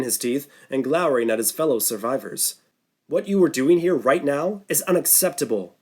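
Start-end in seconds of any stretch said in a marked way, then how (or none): 3.1-5.8 a raised, higher scolding voice; shouting. Acted. Norton berating the survivors, raised voice. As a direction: scold the group like a furious doctor. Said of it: "Norton shouted".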